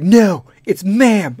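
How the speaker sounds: loud, slow, insistent it's ma'am; mock deep-voiced correction; deep famous singer's ma'am. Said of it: "She sounds like fucking a famous deep-voiced singer".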